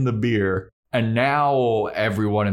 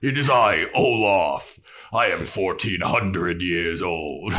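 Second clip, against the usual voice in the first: troll voice; 2 semitones lower, slower than usual. Acted. Troll introduces himself, pompous.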